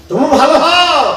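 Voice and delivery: তুমি ভালো হও called out high. Shown as a demonstration. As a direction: push হও up, urging. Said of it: "আমার ছেলেদের বলছি".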